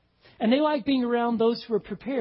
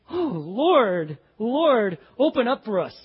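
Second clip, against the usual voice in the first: pleading; 3 semitones higher, 3 dB louder, slower than usual. Acted. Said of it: "You just hear the passion in their voice".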